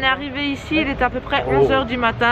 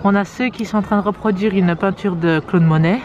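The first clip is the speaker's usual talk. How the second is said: hushed nature documentary; 3 semitones lower than usual. Pretend. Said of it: "Observons les spécimens humains".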